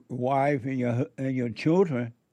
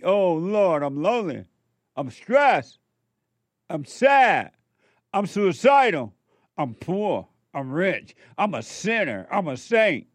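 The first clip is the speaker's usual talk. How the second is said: mock despairing cry to the Lord, louder and higher; mock anguished prayer; 4 semitones higher, 4 dB louder than usual. Preacher imitates a troubled believer praying, mock anguish. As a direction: ham up a self-pitying plea to God. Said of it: "And then you think".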